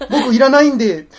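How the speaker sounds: high, loud mock-frightened refusal; scared child. Child facing a shakedown in jest, laughing mock-scared plea. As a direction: play a child giving up his game. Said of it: "カツアゲしてんちゃう".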